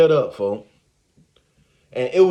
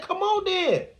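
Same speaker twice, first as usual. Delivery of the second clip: imitating the buff dude; 13 semitones higher, 5 dB quieter than usual. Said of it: "Folks ass get that".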